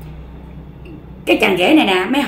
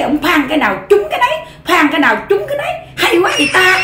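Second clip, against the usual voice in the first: rising amazed exclaim; 5 semitones higher, faster than usual. Acted. Son-in-law marvelling while being hit.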